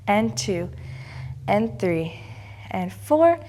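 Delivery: slow, even counts with held pauses; stern rhythmic counting. Acted. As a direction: call each count like a ballet teacher. Counts the class through pliés.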